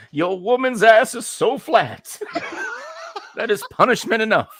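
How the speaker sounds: a demon laughing through a put-down; mocking laugh. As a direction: cackle it out as an insult.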